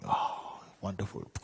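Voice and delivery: soft, blissful sigh of pleasure; enjoying it. Acted. King out riding his horse, softly delighted. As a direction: breathe out the "Oh" in contentment. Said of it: "and he's enjoying".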